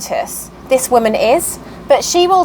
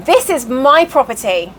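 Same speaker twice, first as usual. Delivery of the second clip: measured, firm correction in the usual pitch; firm Southern rebuttal. Retold or imitated. New owner corrects the ranting woman, firm rebuttal. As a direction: imitate calmly standing your ground. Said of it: "You know how they are in the South".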